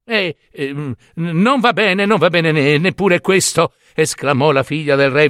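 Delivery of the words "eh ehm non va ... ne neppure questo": stuttering start into a higher-pitched verdict; hesitant rejection. Acted. King's daughter weighs up the second suitor, hesitantly rejecting. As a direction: hum and haw, then reject him.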